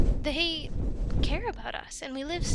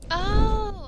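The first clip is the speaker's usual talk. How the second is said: high sudden oh of realization; surprised oh; 8 semitones higher, 6 dB louder than usual. Acted. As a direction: catch on suddenly.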